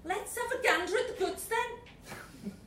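high, jaunty Scouse devil; lightly voiced Liverpool accent. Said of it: "was a Scouser".

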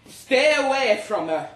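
high strained shout at the rival; desperate demand. Retold or imitated. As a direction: order him off in a panic. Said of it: "I said".

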